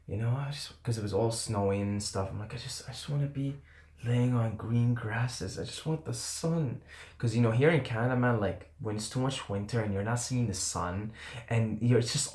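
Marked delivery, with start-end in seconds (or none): 2.5-6.8 hushed, slow, pleading for the sun; soft childlike longing. Retold or imitated. Missing the sun in snowy Canada, soft childlike plea. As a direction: sigh it out like a sad kid.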